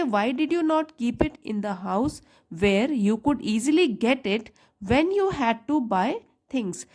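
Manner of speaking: slow, careful read-aloud for students; teacher reading the text slowly for the class. Shown as a demonstration. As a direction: read each word out slowly, like dictation. Teacher reads story sentence aloud.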